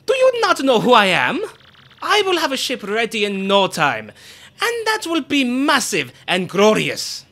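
grand, theatrical nobleman, boastful and eager; pompous Flavio voice. Acted. Reading Flavio to the party, pompous and grand. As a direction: ham up the vain ship owner.

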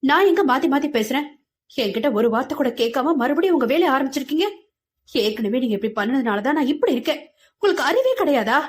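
mild hammed-up outrage, quick and rising; emotional outburst. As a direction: lash out at her parents. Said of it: "உணர்ச்சி வேகத்தில்".

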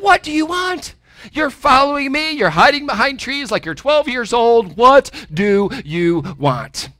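teasing sassy demand, slowing at the end; with an attitude. Shown as a demonstration. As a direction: call them out for sneaking after him. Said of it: "say it with an attitude".

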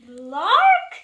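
loud nonsense yelp; forced silly shout. Acted. Reader forced to read the silly word, shouting. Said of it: "even if the words say".

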